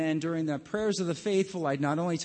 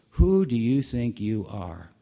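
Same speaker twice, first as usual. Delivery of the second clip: indignant challenge; 5 semitones lower, 6 dB louder than usual. Retold or imitated. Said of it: "He goes".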